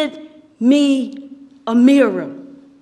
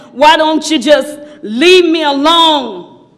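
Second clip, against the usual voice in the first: acted yell of protest, a touch louder; mild yell; 4 dB louder than usual. Clay protests to the master squeezing it, mild yell. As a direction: cry out to be left alone. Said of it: "I started yelling".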